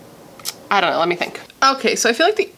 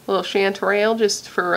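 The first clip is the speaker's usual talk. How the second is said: playful touch of a Southern US twang; lightly put-on Southern accent. Shown as a demonstration. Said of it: "that's my Southern voice".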